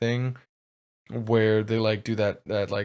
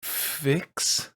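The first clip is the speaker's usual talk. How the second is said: much higher, slow, building fury; villain offended at being called broken; rising villain rage; 7 semitones higher, much slower than usual. Acted. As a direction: let the rage climb word by word. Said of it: "He looks at you and goes".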